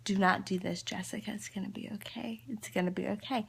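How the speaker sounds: self-soothing. Real, not acted. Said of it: "To literally tell myself".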